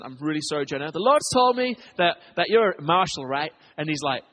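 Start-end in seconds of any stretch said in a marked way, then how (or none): 0.9-3.5 put-on American accent, apologetically amateur; mock American accent; attempted American accent. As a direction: do your best American for the quote. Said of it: "in my best American accent".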